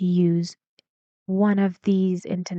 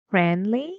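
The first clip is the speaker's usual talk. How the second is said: "Friendly" going higher on "ly"; rising intonation. Shown as a demonstration. Teacher shows how it goes higher, rising end on "Friendly". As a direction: stretch and lift the last syllable of "Friendly". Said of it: "it goes higher on L Y".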